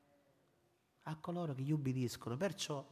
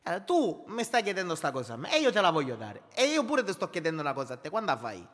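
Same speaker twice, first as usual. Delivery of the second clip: 1 paraphrasing the Lord; 5 dB louder than usual. Retold or imitated. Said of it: "provo un pochettino a parafrasare il Signore".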